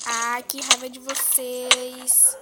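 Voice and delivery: slow, stretched irritated whine; drawn-out annoyance. Real, not acted. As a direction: draw out every word in irritation.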